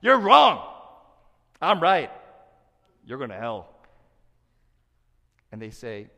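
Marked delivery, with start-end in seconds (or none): 0.0-3.7 high, loud, shouted condemnation fading down; harsh preachy judgment. Shown as a demonstration. Pastor showing how truth without love sounds, shouting harshly. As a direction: bark it like a self-righteous zealot. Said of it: "this is how you sound".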